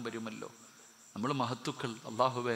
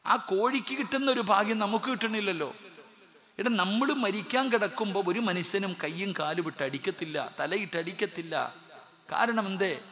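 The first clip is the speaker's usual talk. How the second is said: higher, louder pleading sermon; impassioned preaching; 7 semitones higher, 6 dB louder than usual. Acted. Preacher pleading with listeners about death's agony, loud and high. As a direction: plead with them at full force.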